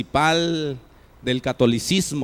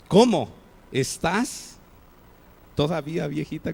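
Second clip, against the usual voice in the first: mock surprise. Shown as a demonstration. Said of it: "como diciendo, ¿Todavía vives".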